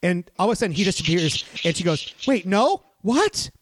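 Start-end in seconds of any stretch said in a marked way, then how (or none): 2.3-3.5 pitched way up, a mock startled yell; retold yell. Retelling the girl's reaction in the theater, a high mock yell. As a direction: jump up high in mock alarm. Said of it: "she yells it like this".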